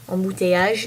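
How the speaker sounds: embouteillage pronounced the French way; French pronunciation. Shown as a demonstration. Repeating the French word for learners, embouteillage in French pronunciation. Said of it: "the word I'm gonna teach you in French is".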